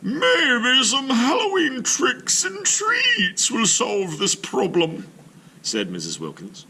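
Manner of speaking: put-on very high, slow, loud old lady voice; scheming old lady. Missus Wilkins plans the trick with the kids, high and slow. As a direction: plot it gleefully like a sly granny.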